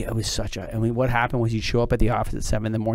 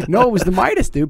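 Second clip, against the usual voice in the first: laughing; 9 semitones higher, 6 dB louder than usual. Real, not acted. Laughing at friend's question.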